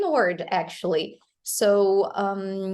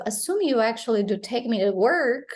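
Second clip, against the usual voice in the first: "work" given the most weight; stress on last word; faster than usual. Shown as a demonstration. Teacher shows learners the last word in a sentence, final stress. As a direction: run quickly through to a weighted "work". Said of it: "it carries more emphasis".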